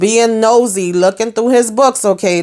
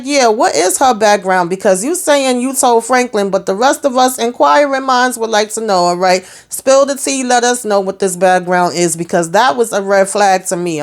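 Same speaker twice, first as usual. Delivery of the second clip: nosy demand; 3 semitones higher than usual. Pretend. Recapper demanding the backstory, pitched up and insistent. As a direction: press them to spill the tea.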